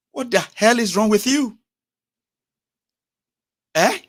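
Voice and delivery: loud, high exasperated outburst; demanding an answer, furious; angry outburst. Real, not acted. Angry rant at defenders.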